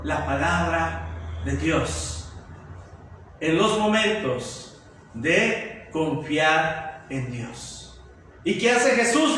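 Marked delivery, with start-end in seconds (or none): 0.0-8.0 much lower, softer and very slow; solemn hush. Real, not acted. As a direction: draw it out into quiet conviction. Preacher ends with a solemn hush.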